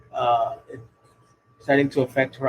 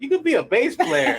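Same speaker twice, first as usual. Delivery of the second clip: uncle's voice; 12 semitones higher, 3 dB louder than usual. Retold or imitated. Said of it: "my uncle just took a look around the room and said".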